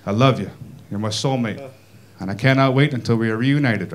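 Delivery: sweet nothings, gently understated; mock love letter. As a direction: read it as a tender love letter. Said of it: "first letter went a little something like this".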